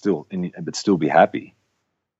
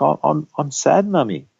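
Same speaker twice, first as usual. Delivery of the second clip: higher-pitched imitation of a sad toddler; lightly voiced small child, pitched up; Axel; 8 semitones higher than usual. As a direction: mimic a little boy confiding in mummy. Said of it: "Axel said to, to Michelle".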